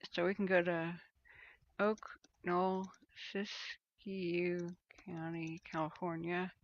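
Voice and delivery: talking around a pencil held in the teeth; pencil in mouth. Real, not acted. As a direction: speak with a pencil in your mouth. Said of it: "Sorry, I have a pencil in my mouth".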